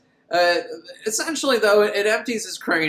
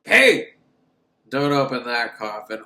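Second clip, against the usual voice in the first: mock warning shout; 4 semitones lower, 4 dB louder than usual. Sidekick warning the boy off the coffin, loud call. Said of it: "sidekick warns the boy".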